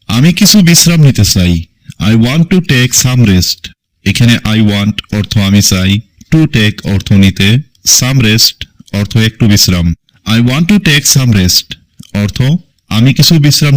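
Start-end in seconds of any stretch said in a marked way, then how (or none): 2.1-3.6 very slow, each word laid out for learners; dictating English slowly to a class; slow teaching read. Shown as a demonstration. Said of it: "English model sentence, slowed". 10.4-11.7 very slow, each word laid out for learners; dictating English slowly to a class; slow teaching read. Shown as a demonstration. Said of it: "repeat of model, slowed".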